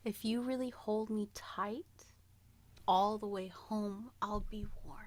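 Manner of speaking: whispered lyric. Shown as a demonstration. Reading the clue to friend, whispered. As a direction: breathe it out in a whisper.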